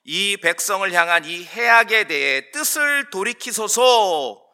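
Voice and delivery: slow, drawn-out scripture plea; earnest, measured entreaty; Moses' entreaty. Acted. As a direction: appeal solemnly to the Lord, stretching the words. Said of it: "모세가 주님을 향해서".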